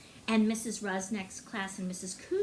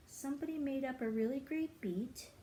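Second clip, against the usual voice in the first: whispered; 6 dB quieter than usual. Real, not acted. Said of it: "unvoiced whisper heard".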